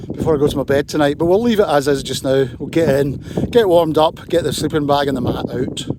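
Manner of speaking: loud over howling wind; shouting over wind. Real, not acted. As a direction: push your voice over the gale. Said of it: "hear me over this wind".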